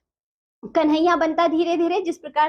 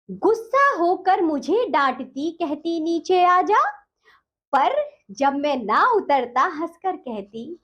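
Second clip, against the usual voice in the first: poem recitation. Acted. Teacher recites poem stanza.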